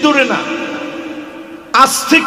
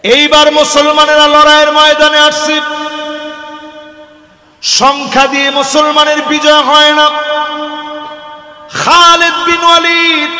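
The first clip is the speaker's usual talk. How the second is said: preaching. Acted. Preacher rousing the crowd at a night waz, fervent. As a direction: preach it to the whole mahfil.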